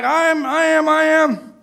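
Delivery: put-on high, loud chorus of kids; eager children. Kids show off to their teacher, high and eager. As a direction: chime in like eager little kids. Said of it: "they were all like".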